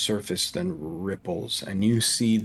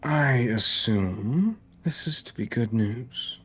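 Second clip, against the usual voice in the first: attempted Irish accent. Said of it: "That's not Irish, but I'm trying".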